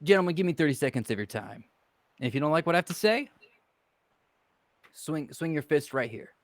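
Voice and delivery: lightly voiced smooth talker making a pitch; in-character pitch. Player's character pitching a deal to two strangers, lightly voiced salesman. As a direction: sell it to the gentlemen like a confident hustler.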